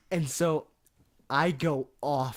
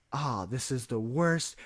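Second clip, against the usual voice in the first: whispered. Retold or imitated. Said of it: "he's like".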